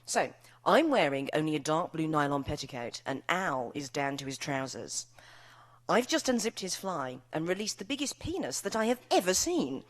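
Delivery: lively, expressive reading aloud to an audience; story reading. Acted. Author reading her novel to a laughing crowd, performed reading. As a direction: read the scene with comic relish.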